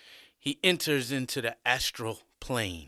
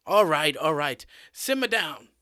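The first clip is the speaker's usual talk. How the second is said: settling the class; 4 semitones higher, 6 dB louder than usual. A narrator's reading. Teacher settles a laughing class.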